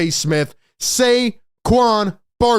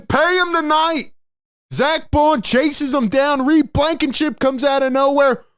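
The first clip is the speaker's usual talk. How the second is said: higher, fast-building game call; excited play-by-play; 5 semitones higher than usual. Real, not acted. Fan recapping the game-saving stop, excited. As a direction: call the play like a hyped announcer.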